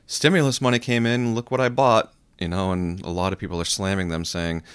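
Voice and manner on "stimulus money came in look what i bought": bragging. Retold or imitated. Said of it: "a lot of people who are saying".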